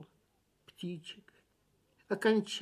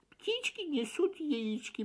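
mechanical recital; 8 semitones higher, 3 dB quieter than usual. A narrator's reading. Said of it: "машинально повторил он заученную фразу".

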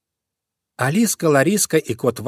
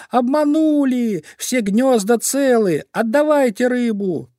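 outraged crow; 12 semitones higher, 3 dB louder, slower than usual. Acted. Crow demands her fish back.

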